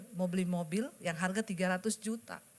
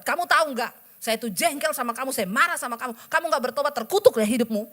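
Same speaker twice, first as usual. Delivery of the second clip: scolding rant; 2 semitones higher, 6 dB louder than usual. Retold or imitated. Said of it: "Saya kata-katain".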